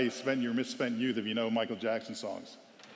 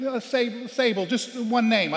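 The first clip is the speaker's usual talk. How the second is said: higher, louder, slowed exasperation; exasperated coach; 9 semitones higher, 5 dB louder, slower than usual. Retold or imitated. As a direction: spell it out in frustration. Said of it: "I was like".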